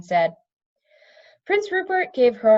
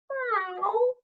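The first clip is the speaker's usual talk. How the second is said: high, emphatic cat meow; 13 semitones higher, 4 dB quieter than usual. A narrator's reading. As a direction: meow in firm agreement. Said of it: "one of the cats agreed emphatically".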